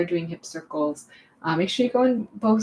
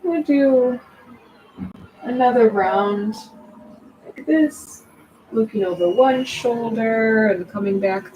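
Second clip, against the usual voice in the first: guided yoga instruction; 4 dB louder than usual. Real, not acted. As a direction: guide them through each stretch with long pauses. Guides another round of movement.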